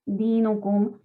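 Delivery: Lakum dinukum said slowly, the mim clearly heard. Shown as a demonstration. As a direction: take your time so the mim in Lakum dinukum comes through. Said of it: "leamos con tranquilidad".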